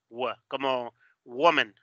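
W as "wuh", then WOMAN slowly; slow model of W in WOMAN; W sound. Shown as a demonstration. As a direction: round into W and carry it into WOMAN. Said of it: "estamos identificando el sonido w".

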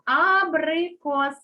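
Абрикос drawn out slowly for dictation. Shown as a demonstration. Teacher dictating to pupils, slow and clear. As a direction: spell out Абрикос slowly, each syllable clear. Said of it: "Записуємо".

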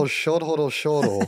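put-on pouty toddler voice; baby voice. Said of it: "in a baby voice".

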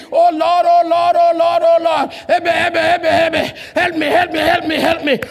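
hammed-up whining cry for help; mock plea for help. Mocking David crying for help.

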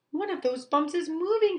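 high, loud alarm. Acted. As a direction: blurt it out in a fright. Owl alarmed in bed.

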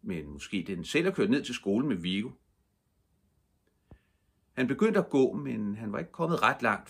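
plain reading voice

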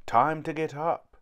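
calling up the stairs. A narrator's reading. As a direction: raise the voice to call upstairs. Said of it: "he called".

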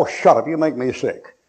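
usual speaking voice

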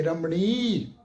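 ਰਮਣੀ with the final ਣੀ held long; long vowel. Shown as a demonstration. Teacher showing the long vowel in ਰਮਣੀ. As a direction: stretch the ਣੀ in ਰਮਣੀ. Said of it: "ਇਹਨੂੰ ਅਸੀਂ ਲੰਮਾ ਕਰਕੇ ਉਚਾਰਨ ਕਰਾਂਗੇ".

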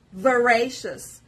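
careful teacher's model of "Voracious", stressed on the second syllable. Shown as a demonstration. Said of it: "You pronounce R with louder and longer voice".

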